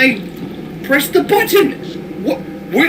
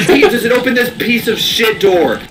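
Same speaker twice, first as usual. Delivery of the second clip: laughing. Real, not acted. Laughing at the game door.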